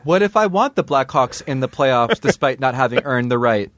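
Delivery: infomercial customer. Pretend.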